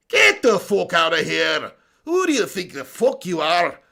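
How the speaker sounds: brash, swaggering Irish fighter; Conor McGregor accent. Acted. Streamer as the fighter boasting to a challenger, swaggering Irish accent. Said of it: "Do Conor McGregor's accent".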